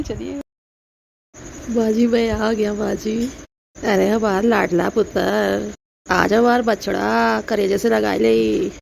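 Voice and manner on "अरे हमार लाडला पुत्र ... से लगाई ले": slow, doting village mother-in-law in dialect; a doting village mother-in-law, lightly voiced. Mother-in-law greeting her son, slow and doting.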